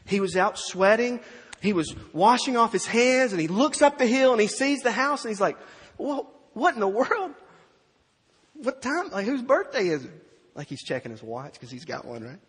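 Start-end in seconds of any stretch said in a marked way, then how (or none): 0.1-5.2 loud, building sermon delivery; preaching at full force. Acted. Preacher to congregation, loud and building. 6.0-10.3 higher, baffled what-in-the-world; mock confusion at the noise; puzzled older son. Older son spotting the party, higher and baffled.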